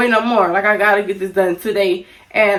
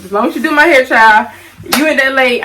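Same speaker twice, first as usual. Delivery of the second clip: emphatic aside; 4 semitones higher, 6 dB louder than usual. Real, not acted. Relaxed aside to viewers.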